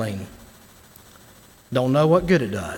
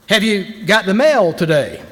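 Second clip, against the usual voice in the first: mild shout; 3 semitones higher than usual. Shown as a demonstration. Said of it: "I can shout that".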